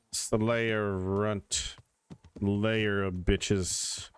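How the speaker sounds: slow, lordly mock emperor voice; lightly hammed-up arrogant ruler; cold rasping evil emperor. Player mocks as grand lord.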